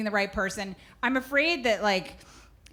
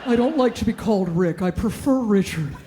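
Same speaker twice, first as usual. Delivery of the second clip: mock therapist whisper; 2 semitones lower than usual. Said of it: "a therapist whisper".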